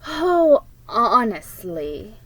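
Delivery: exasperated, drawn-out honestly; scowling. Acted. Older sister scolding about the boxes, exasperated scowl. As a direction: sigh it out with disdain. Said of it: "with a scowl".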